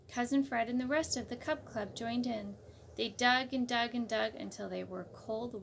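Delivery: put-on reading a picture book to kids; gentle read-aloud narration; story narration. A narrator's reading. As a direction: tell it like a bedtime storybook.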